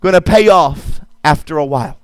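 full-voiced preacher declaring over the crowd; preaching. Pastor exhorting the congregation, preaching. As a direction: preach it with rising conviction.

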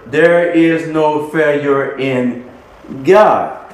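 slow, spaced-out "there is no failure in", landing on "God"; key words. Real, not acted. Preacher giving the congregation the key words, slow emphasis on "God". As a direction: stretch "there is no failure in", pause, then hit "God". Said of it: "But the key words".

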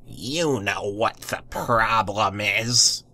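put-on slow, gruff old neighbor; lightly voiced grumpy neighbor. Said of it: "The woman gruffly poked a finger".

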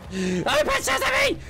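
high slow amazed cry; startled relief. Real, not acted. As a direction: marvel that it missed you. Monster passes close.

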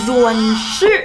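z misread as buzzy English z in ซวน; tentative wrong reading of ซวน ชื่อ; mistaken guess. Shown as a demonstration. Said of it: "บางคนอาจจะแบบ เฮ้ย".

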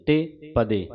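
ਤੇ ਪਦੇ as two words, te set apart; separated pronunciation. Shown as a demonstration. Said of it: "ਤੱਤੇ ਨੁਸਿਆਰੀ ਵੱਖਰੀ".

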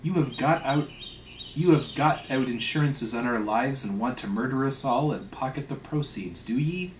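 emphatic, mildly heated scolding; accusing. Acted. Stubb accusing the steward of poisoning, indignant. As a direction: press the accusation, lifting on each question.

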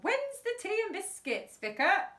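shouting out. A narrator's reading. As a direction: call out to the vicar, hard of hearing. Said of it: "she shouted out".

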